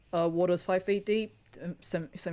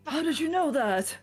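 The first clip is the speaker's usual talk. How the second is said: loud, high, amazed prisoner; gruff sly prisoner; 11 semitones higher, 5 dB louder than usual. Acted. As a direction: blurt it out, suspicious. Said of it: "So he goes".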